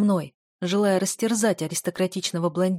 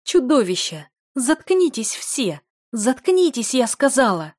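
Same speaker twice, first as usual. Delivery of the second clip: higher, louder shouting; enraged screaming command; furious shout; 6 semitones higher, 6 dB louder, slower than usual. A narrator's reading. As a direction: scream at them to shut up. Del screams at the crowd.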